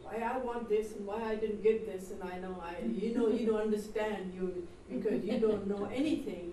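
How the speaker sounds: mock a youngster's tirade, half-laughing; retold shouting. Youngsters shouting at their elders, retold as a mild mock rant. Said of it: "They're shouting and screaming at you".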